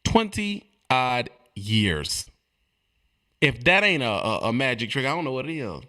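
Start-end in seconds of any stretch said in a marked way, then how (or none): 0.1-2.3 each word of "Twenty odd years" drawn out and separated; very slow, low, spaced-out words; slow emphasis. Real, not acted. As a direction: let every word land on its own, slowly. Repeats figure slowly again.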